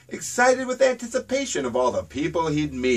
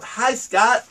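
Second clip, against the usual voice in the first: crow calling out; 5 semitones higher, 3 dB louder than usual. A narrator's reading. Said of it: "he called out".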